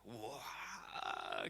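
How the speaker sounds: long, drawn-out mock "waah"; imitated ride wail. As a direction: wail as if being spun round. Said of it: "Tiba-tiba puterannya itu semakin gila".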